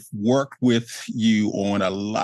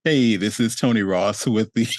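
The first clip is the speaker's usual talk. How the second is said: summit host voice. Shown as a demonstration. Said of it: "my summit voice 'cause it's not my normal speaking voice".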